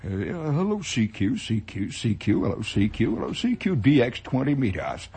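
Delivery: Scottish ham timidly calling after the fight; tentative CQ call. Retold or imitated. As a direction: feel out the silence timidly. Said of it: "I heard very tentatively".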